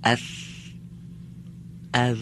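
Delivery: اف and از said thin with a wide flat mouth; thin letters. Shown as a demonstration. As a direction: keep اف and از light and thin. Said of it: "نازک و رقیق بگم".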